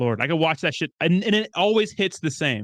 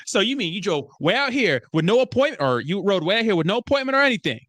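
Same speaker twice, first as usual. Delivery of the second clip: mock indignation; 5 semitones higher than usual. Acts out indignant film character.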